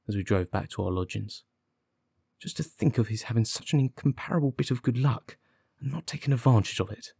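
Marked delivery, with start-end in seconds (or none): 2.4-7.1 higher, exasperated disbelief; bitter. Acted. Detective fuming at the constable's missed good luck, mildly bitter. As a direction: lament it with mild bitterness.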